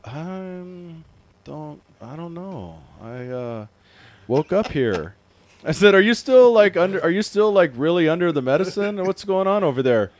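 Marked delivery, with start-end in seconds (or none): 0.0-5.2 stoned friend. Retold or imitated. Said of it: "you know the stoner, the, the friend". 6.0-10.1 high, loud retold phone question; loud incredulous questioning. Loudly questioning stoned friend, retold.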